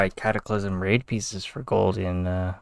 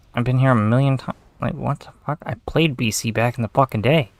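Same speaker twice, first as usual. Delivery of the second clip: aggravated rant; 3 semitones higher than usual. Real, not acted. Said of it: "I'm getting really aggravated".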